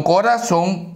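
"corazón" with the stress wrongly on ra; stress on middle syllable. Shown as a demonstration. Teacher testing stresses to find the tonic syllable, middle-syllable stress on "corazón". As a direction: hit the middle of "corazón", co-RA-zón. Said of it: "la mayor fuerza de voz".

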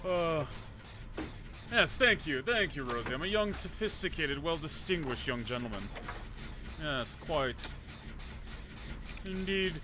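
put-on posh gentleman accent; distinguished gentleman accent. Player greeting teammates in character, mock distinguished gentleman accent. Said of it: "we have to speak like distinguished gentlemen".

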